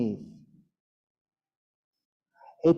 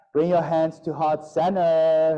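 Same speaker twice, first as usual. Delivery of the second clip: yoga instructor voice. Retold or imitated. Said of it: "yoga instructor saying".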